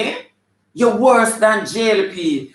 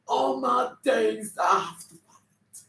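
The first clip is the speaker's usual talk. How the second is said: mock lament; 4 semitones higher, 8 dB quieter, slower than usual. Mock lament after the swoon.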